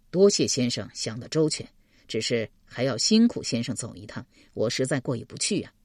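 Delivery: lightly voiced low-pitched man, courteous; a hint of a grateful, humble official; polite young official. Narrator voices 邓毅 thanking. (略压低声音，客气致谢)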